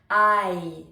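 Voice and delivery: slow I gliding from A into I; diphthong I demo. Shown as a demonstration. Coach shows the English I glide, slow. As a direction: stretch I from ah to ee. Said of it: "on voit qu'il y a un A en premier et on finit avec le I".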